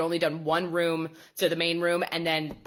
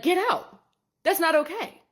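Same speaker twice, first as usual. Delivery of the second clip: much higher, louder mock shriek; mock outrage; 11 semitones higher, 4 dB louder than usual. Joking about Lord of the Rings haters, hammed-up shriek. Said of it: "I'd be like".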